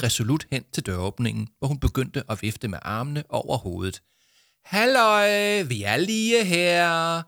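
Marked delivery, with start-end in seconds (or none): 4.6-7.2 high, loud call across the room; shouting. Acted. Jama calling to the people in the office, shouting. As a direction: call out to get attention. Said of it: "råbte Jama til folkene".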